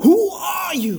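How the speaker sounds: high, loud hammed-up question; mock-epic imitation. Host parodying the show's intro for his co-hosts, mock-epic. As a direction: belt it out like a parody trailer.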